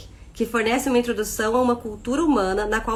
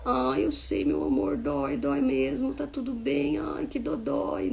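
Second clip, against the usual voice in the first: put-on soft, higher cooing to a hurt baby; tender comforting; 4 semitones higher, 5 dB quieter, slower than usual. Shown as a demonstration. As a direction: coo it gently like soothing a child. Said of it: "faz caras". (mãe consolando o bebê machucado, com voz suave e carinhosa)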